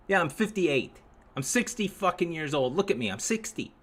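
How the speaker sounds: ordinary talk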